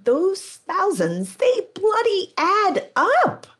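slow, voice cracking high with emotion; choked up, slow and high; emotional. Real, not acted. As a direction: hold back tears as the words come out. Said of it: "I'm almost getting emotional saying this".

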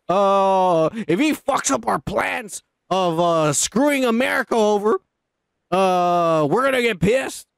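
slow, grumbling imitated president; imitating Biden. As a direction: drag it out like a fed-up old politician. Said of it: "next to the water cooler going".

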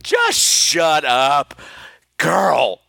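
firm, emphatic telling-off, slowing at the end; mock exasperation. Woman scolding friend for showing off, mock-exasperated. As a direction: cut him down in drawn-out stressed words.

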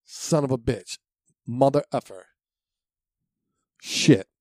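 mock-angry kid swearing, building to a loud final word; kid cursing angrily. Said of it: "I'd rather hear a curse say".

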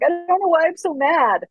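put-on high childish voice, frustrated; mock child voice, confused and mad. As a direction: play the upset little kid. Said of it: "be like".

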